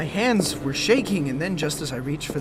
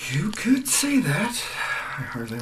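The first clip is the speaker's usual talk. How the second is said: whisper; 2 semitones higher than usual. Acted. Hungover Talbot answering the landlady, whispered. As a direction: whisper it dryly.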